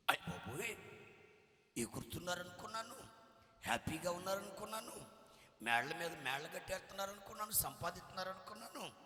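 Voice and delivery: startled man blurting his shock; frightened exclaim. Retold or imitated. Dreamer terrified after seeing men fall, loud frightened cries. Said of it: "భయపడిపోయాడు".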